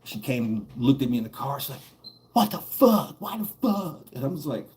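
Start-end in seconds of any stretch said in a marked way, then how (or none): 2.3-4.0 high, shocked cry from the bully's aunt; outraged auntie. Retold or imitated. The bully's aunt shocked at him in the police car. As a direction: demand answers in disbelief.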